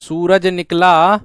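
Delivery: very slow, drawn-out reading; slow dictation. Shown as a demonstration. Teacher dictates the first clause very slowly. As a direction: dictate सूरज निकला slowly. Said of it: "बात clear है?".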